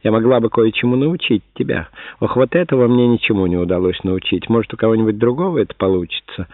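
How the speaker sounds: high falsetto, teasing like women; falsetto women's voices. Retold or imitated. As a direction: mimic mocking women in falsetto. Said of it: "заговорил фальцетом, подражая женским голосам".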